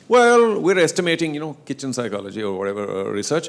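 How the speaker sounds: mock official hedging. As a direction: stall with a drawn-in excuse, easing down. Acting out officials' vague answer.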